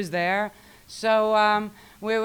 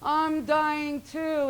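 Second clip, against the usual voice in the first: mock panic; 9 semitones higher, much slower than usual. She joins the panicked crawling.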